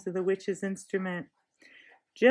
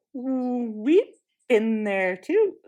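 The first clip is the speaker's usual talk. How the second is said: put-on slow, louder angry girl; snapped; 3 semitones higher, 5 dB louder, much slower than usual. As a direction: bite back, furious and stubborn. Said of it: "snapped Jill".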